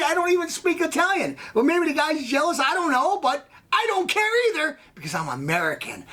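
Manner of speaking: indignant rant. Real, not acted. Comic insisting he is American to a needler, indignant. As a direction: build the pitch as you protest.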